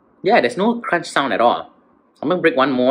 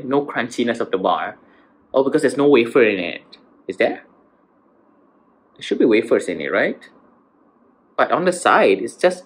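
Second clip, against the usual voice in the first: chewing while talking; speaking between bites; mouth full of chocolate. Real, not acted. Seen 0: bites bar at 3.3, then talks while chewing.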